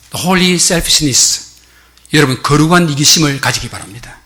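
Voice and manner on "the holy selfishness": "holy" drawn out and stressed, very slow. Shown as a demonstration. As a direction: introduce "The holy selfishness" slowly, leaning on holy. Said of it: "한 가지 소개합니다". ("holy"에 힘주어 아주 느리게)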